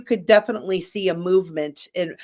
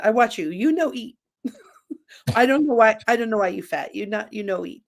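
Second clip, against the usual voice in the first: mild mock Chinese accent in broken English; 3 semitones higher than usual. Chinese friend telling her she doesn't eat, light Chinese accent. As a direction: lightly imitate a Chinese friend puzzling aloud. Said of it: "I love doing her accent".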